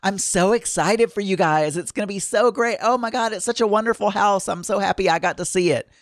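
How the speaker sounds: mildly bubbly imitation. Realtor touring the new house with buyers, lightly bubbly imitation. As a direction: play up her cheerful enthusiasm a little. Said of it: "totally bubbly and excitable".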